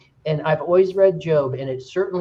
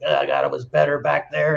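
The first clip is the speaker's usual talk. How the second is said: lightly acted grumble; mock grumbling. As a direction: imitate a grumbling complainer. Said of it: "they're grumbling and mumbling".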